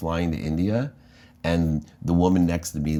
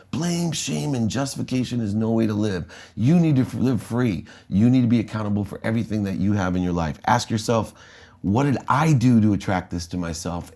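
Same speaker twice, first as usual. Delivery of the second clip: lightly voiced mother, higher, lecturing her kids; a hint of a preaching mom, pitched up; 4 semitones higher than usual. Mom lecturing her children on accountability, mildly higher voiced. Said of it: "She would say to all my siblings and I".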